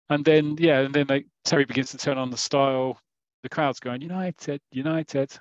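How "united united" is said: put-on crowd chant in a light Manchester accent; a hint of Manchester in a football chant. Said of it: "why they're using the Manchester accent".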